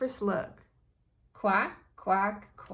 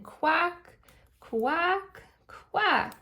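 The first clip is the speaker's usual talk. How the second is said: high, spaced-out storybook quacks; happy duck quacks; 8 semitones higher, much slower than usual. A narrator's reading. Dad duck invites Ducky to quack along, playful high quacks. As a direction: lift each quack high and separate.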